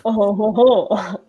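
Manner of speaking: lightly voiced rock-and-roll crooner chuckle; a hint of a famous crooner in a showy chuckle. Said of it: "is my companion just a famous singer?".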